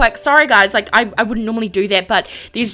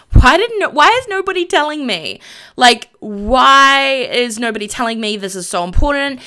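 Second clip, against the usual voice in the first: frustrated anger; 4 dB louder than usual. Acted. Voicing sim Carlos kept in the dark, mock frustrated anger. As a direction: demand an answer, drawing out the why. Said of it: "He's angry and just frustrated".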